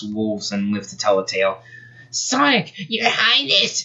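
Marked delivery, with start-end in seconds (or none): 2.1-3.8 much higher panicked squeak; squeaky. Acted. Frightened Nicole bursts in to warn the royals, squeaking. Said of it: "she squeaked".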